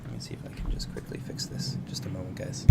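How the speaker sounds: breathy whispered aside; hushed off-mic whisper. Real, not acted. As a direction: whisper it quickly while fixing something. Headphones issue, aside off mic.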